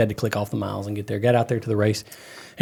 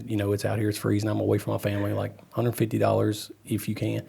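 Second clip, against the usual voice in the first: mock humble plea; 4 semitones lower, 10 dB quieter than usual. Imagined humble plea of driver.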